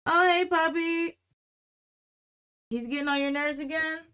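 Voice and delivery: retold breezy calm in a high voice; calm, casual. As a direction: imitate an unbothered friend, drawing it out. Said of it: "she said it so calmly".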